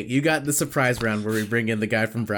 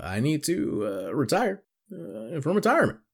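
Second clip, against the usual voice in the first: halting delivery; 3 semitones higher than usual. Shown as a demonstration. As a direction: drag it out in halting pieces. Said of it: "halting second take".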